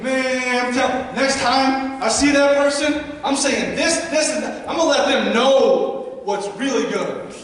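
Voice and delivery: mildly hammed-up indignant venting; mock-heated telling-off, building to a sassy finish; exaggerated arguing rant. Speaker imitating someone venting alone in the car after an argument, mock indignant. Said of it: "maybe you don't talk like that".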